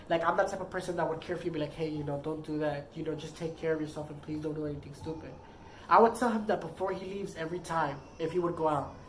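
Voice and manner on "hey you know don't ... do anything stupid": low, soft retold reminder; caring plea. Partner telling him to take care, soft caring plea. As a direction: gently imitate your own worried send-off, hushed and quick.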